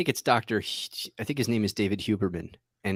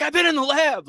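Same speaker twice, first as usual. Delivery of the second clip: mock friend voice; 4 dB louder than usual. Mimicking friend's stock excuse.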